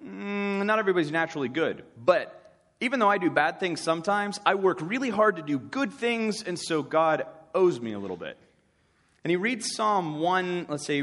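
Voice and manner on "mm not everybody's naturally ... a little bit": mock self-satisfied Pharisee, pitched higher; lightly hammed-up smug Pharisee justifying himself; self-righteous Pharisee. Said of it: "The Pharisee is a little wiser in the world, and he says".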